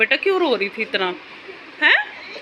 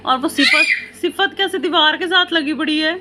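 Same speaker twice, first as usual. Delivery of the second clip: laughing call-out; 4 semitones higher than usual. Real, not acted. Mother laughs at daughter by wall.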